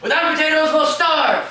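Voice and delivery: very high, loud wail; panicked shout. Acted. Father wailing to his family about starving, loud and high. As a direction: cry out in hammed-up panic.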